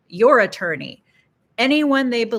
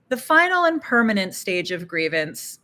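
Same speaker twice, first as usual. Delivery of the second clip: "permanent" said firmly and distinctly; stress on permanent. Real, not acted. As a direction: lean on the word "permanent". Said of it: "emphasis on permanent".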